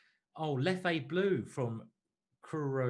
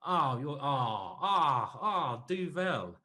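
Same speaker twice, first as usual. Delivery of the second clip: loud, rising gasps of delight before naming "Duvel"; delighted excitement; 5 dB louder, much slower than usual. Real, not acted. Chess commentator spots his favourite beer in chat, loud delighted oh. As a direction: burst out, thrilled to see his favourite beer.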